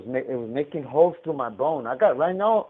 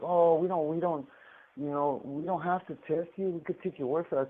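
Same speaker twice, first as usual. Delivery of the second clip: dismissive staff; 5 semitones higher than usual. Retold or imitated. Mimics staff brushing him off.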